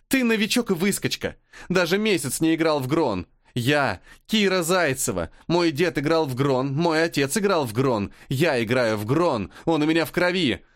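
high, ringing, proud and scornful; angry ringing boast. Acted. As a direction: boast of her family proudly. Angry rival girl boasts. (звенящий, надменный голос)

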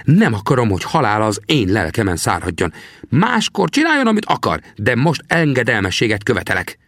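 put-on old trapper questions the young man. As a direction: play the grizzled scout, needling the greenhorn. Sam demanding obedience.

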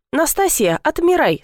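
brisk order to unfreeze; commanding. A narrator's reading. Officer commanding the frozen nurse. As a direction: snap her out of it with a command. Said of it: "скомандовал".

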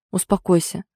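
steady, level soothing; calm reassurance. Acted. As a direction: settle him down gently. Egor calming his brother.

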